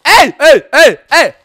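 loud, short repeated shouts; alarmed protest. Real, not acted. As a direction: shout in protest, one burst after another. Nagły protest w grze. (głośne okrzyki protestu)

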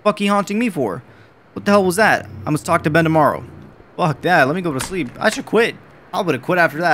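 worked-up, incredulous rant; rattled outburst. Real, not acted. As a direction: protest loudly after a scare. Rattled after a scare in game.

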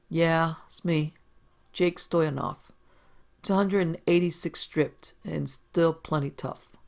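slow, lightly voiced boastful bruiser; a hint of a swaggering tough guy; slow, self-satisfied brag to the visitor; tough big manager. Big manager introduces himself.

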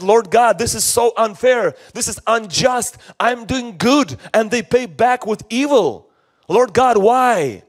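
acted plaintive protest to heaven; complaining. David complaining to God about unfairness, mildly acted plaintive protest. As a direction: plead a mild, aggrieved complaint. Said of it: "he complained a lot to God".

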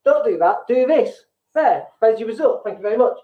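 impatient, bossy coach telling you off; half-joking bossy coach, brisk and dismissive; blunt coaching. Shown as a demonstration. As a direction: scold them then hand over the fix. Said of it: "my kind of coaching is more".

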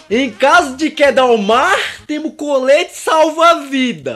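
slow safety announcement; flight attendant safety speech. Retold or imitated. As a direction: read it like cabin crew. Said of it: "instruções de segurança".

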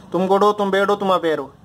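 "तुम गुड हो, तुम बैड हो" held up, "तुम अवेयर हो" dropping to close; rhythm drill. Shown as a demonstration. Teacher asking all students to say it, rhythm drill. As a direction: lead the class in a rhythmic recitation. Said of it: "rhythm पकड़ो".

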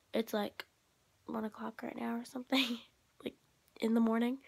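soft late-night whisper. Real, not acted. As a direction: whisper it so nobody wakes.

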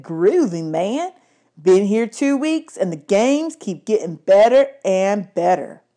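a lightly voiced groovy teen, slow and drawn out; lazy, slow disco kid; laid-back seventies kid. Stoner boy Darren speaks.

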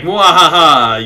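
loud, drawn-out evil laugh; mock evil-mastermind cackle, slow and big; villain laugh. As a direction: belt out a hammy "mwahaha". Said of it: "Is it gonna be like".

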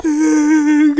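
high, drawn-out fake sob; hammed-up wail of misery; put-on crying sound; mock wail. Enslaved captive wails to viewers.

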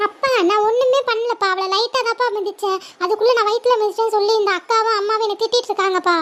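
put-on a whiny kid insisting she did nothing; little girl pleading she only kicked lightly; defensive little sister. Kid sister complains to father.

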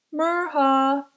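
"Mirha" with a swallowed R, like "erha"; a kid mangling "Mirha"; name mispronounced. Acted. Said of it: "their R sounded wrong".

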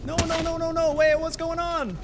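frantic as the smoke hurts; panic. Real, not acted. Player choking in smoke, rising panic. Smoke hurting him in game.

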